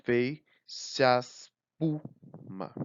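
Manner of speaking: slow, deliberate verse recital; reading a poem line. Shown as a demonstration. Teacher reciting a sonnet line to students, slow and measured. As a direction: read the verse out slowly for the class. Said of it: "a sílaba tônica é".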